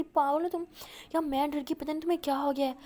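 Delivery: exasperated scolding. Acted. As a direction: tell her off in relief. Scolding after scare.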